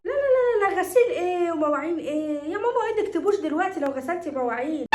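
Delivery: high, rushed objection; alarmed protest. Acted. Mother protesting daughter's chores, alarmed protest.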